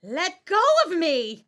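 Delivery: high, panicked cry to break free; frantic yell. Acted. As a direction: shout as he grabs her. Struggle with killer.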